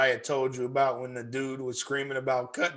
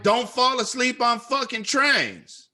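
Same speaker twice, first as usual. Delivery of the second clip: retold chewing out; 7 semitones higher than usual. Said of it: "I was like".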